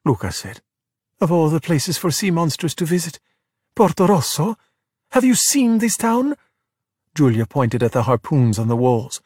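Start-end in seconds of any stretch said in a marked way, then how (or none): 1.2-6.4 high-pitched disbelief, climbing; incredulous scolding. Acted. Giulia scolds Luca over his choice, incredulous. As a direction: question their sense, pitch rising. Girl scolds exposed sea monster.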